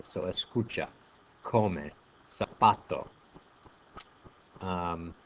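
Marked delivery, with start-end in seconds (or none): 0.2-3.1 "escucha, come, zapato" each stressed on the second-to-last syllable; natural syllable stress. Shown as a demonstration. Spanish teacher showing the natural accent, second-to-last syllable stressed in "escucha, come, zapato". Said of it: "almost always on the second to last syllable".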